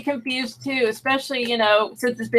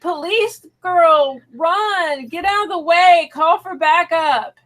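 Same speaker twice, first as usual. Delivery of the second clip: mildly urgent, raised pitch; urgent pleading; 6 semitones higher, slower than usual. Retold or imitated. Viewer telling police girl to run, mild acted urgency. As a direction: urge her to flee, pitched up. Retells urging officer to flee.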